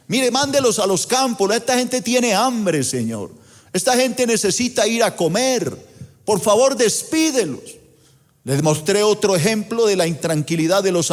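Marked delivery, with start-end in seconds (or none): 0.1-7.6 higher, mock pleading to the Lord; pleading disciples. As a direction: beg him to send the crowd away. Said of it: "los discípulos le estaban diciendo".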